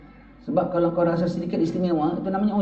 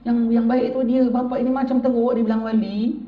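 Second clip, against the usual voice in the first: self-effacing father; 7 semitones higher, 4 dB louder than usual. Retold or imitated. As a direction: insist you are the lesser one. Father humbly deflecting. (bapa merendah diri dengan bersungguh)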